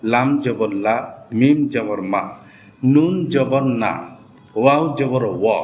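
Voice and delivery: each letter then জবর then the short sound, like জিম জবর জা; letter drill recitation. Shown as a demonstration. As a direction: chant through the alphabet drill steadily. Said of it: "শর্টকাটে বলে দিচ্ছি". (অক্ষর ধরে জবরের উচ্চারণ পাঠ)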